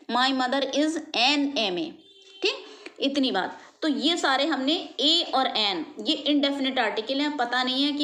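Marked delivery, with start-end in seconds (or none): 0.1-1.9 very slow, each word laid out for students; slow example sentence. Shown as a demonstration. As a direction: dictate the example slowly. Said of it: "example समझ लो". (धीरे धीरे उदाहरण वाक्य)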